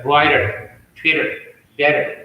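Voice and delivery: brighter, Twitter, better with T like a D; American flapped T. Shown as a demonstration. Teacher showing T between vowels, American flapped T. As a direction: soften the T to "duh", American style. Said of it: "pronounce it like duh".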